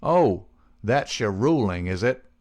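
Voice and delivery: scornful. Acted. Rival reacts to the boss's ruling, scornful. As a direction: challenge the verdict with contempt.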